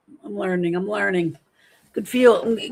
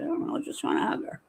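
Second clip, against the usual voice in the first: quick breathy whisper, a bit lower; 7 semitones lower, 7 dB quieter, faster than usual. Real, not acted. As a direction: rush it out under your breath. Secret aside continues.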